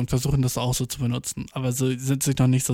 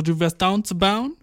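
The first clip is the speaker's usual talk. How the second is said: slow, higher echoing question; delighted disbelief; 4 semitones higher, slower than usual. Retold or imitated. Guy checking his date's borrowed slang, mock amazed. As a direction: draw it out, rising on "bauen".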